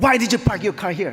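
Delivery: put-on loud, very slow, angry old woman voice. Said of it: "씩씩거리면서 달려와요".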